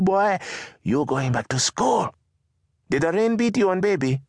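high, lilting mother's voice; a poor mother checking on her son; high-voiced street mother asking her boy; Mama's voice. Narrator voices Mama.

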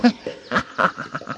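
high, soft chuckling; breathy cackle trailing down; acted laugh. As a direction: chuckle lightly as the bone. Bone laughs too.

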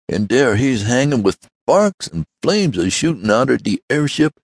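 put-on high-pitched, breathless old servant; excited old servant. Servant telling Mister Swift of Tom's danger, excited high voice. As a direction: tumble out the alarming news.

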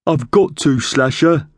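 high-pitched, insistent magpie voice; magpie retort. Acted. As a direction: answer back as a high-voiced bird.

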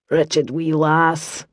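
slow, low, quiet grumble; irritated grumble. Acted. Brother Matthew grumbles as Kira hurries away, slow and irritated. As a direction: grumble after the slammed door. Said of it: "grunted with irritation".

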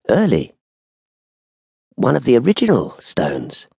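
reverent. A narrator's reading. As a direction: marvel reverently at a rare treasure. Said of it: "The beggar's voice was reverent".

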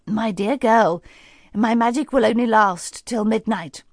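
a hint of a stern old lady warning; serious fairy godmother. Fairy godmother warns Cinderella about midnight, serious. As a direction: warn her gravely but kindly. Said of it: "looked very serious suddenly".

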